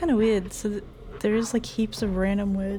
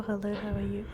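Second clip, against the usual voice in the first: put-on Scottish accent; 7 dB quieter than usual. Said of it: "Nice accent".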